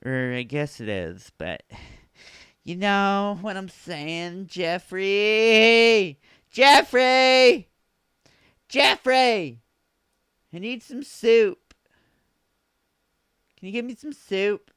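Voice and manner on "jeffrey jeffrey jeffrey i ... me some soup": high, loud call for Jeffrey; high shouted summons. Pretend. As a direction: holler across the house for soup. Calling out for Jeffrey.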